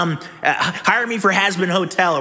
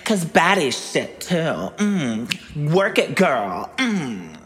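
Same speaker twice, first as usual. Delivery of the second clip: put-on sassy girl voice; slower than usual. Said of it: "I wanna show off all the voices".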